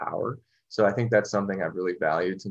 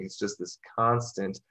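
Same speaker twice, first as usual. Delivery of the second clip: ordinary talk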